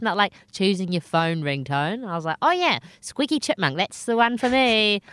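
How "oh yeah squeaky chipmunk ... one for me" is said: higher, sarcastic delight; mock enthusiasm. Choosing a voice like a phone ringtone, mock-enthusiastic sarcasm. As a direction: pretend to pick it eagerly.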